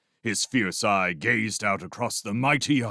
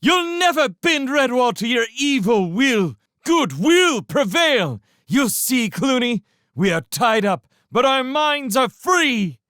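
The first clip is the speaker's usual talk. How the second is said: much higher, loud shouting vow; defiant shout; 7 dB louder than usual. Acted. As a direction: hurl defiance at the tyrant. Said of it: "she shouted at Clooney".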